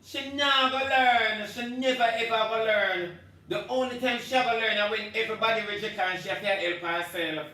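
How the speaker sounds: loud, high, fed-up shouting; real angry shouting rant; furious rant. Real, not acted. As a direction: yell it like you've given up on her. Ranting about Ivany.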